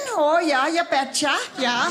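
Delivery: a light Wisconsin accent, drawn-out oh; playful Wisconsin accent on show. Shown as a demonstration. Showing the crowd how Wisconsin people talk, in a light Wisconsin accent. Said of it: "That's how we talk".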